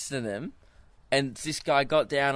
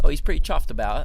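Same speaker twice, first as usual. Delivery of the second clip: brisk, louder mock British accent; 5 dB louder, faster than usual. Co-host joking about the word chuffed, mock British accent. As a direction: toss it off in a playful British accent. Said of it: "say it in your British accent".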